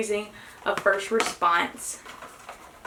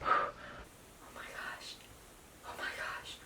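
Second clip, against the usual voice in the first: stunned whisper; 16 dB quieter than usual. Real, not acted. Whispering over the test result.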